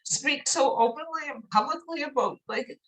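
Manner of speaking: real choked-up, heartfelt voice; crying. Real, not acted. Telling her people they touch her heart, crying. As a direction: push the words out through tears. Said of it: "I hate fucking crying in public".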